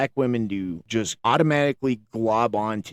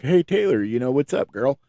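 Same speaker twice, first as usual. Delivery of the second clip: casual flirty greeting; 3 semitones higher, 3 dB louder than usual. Retold or imitated. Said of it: "the next day was like".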